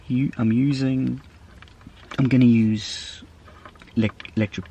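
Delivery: talking through hiccups; words broken by hiccups. Real, not acted. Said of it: "Sorry, I got hiccups".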